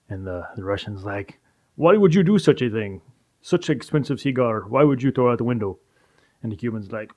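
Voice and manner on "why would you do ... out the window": outraged Russian. Acted.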